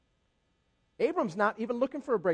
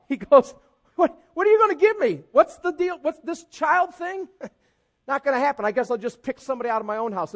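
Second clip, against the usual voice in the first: higher and louder, whining and grumbling; Abram with attitude; 3 semitones higher, 6 dB louder than usual. Retold or imitated. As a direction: sulk at God like a fed-up complainer. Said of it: "get the attitude kinda upped".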